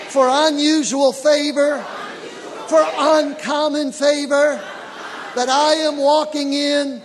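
loud, slow prayer the congregation repeats; leading prayer. Real, not acted. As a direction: lead the church in a slow, lifted prayer. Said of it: "lift your hands up with me. Say".

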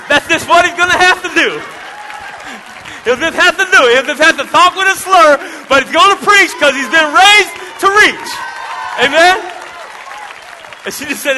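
loud, high, driving preacher voice; fired-up sermon delivery; full-force preaching. Acted. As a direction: preach it to the congregation, full power.

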